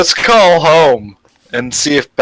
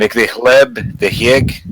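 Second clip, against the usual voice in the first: put-on Russian accent. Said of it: "speak in English in a Russian accent".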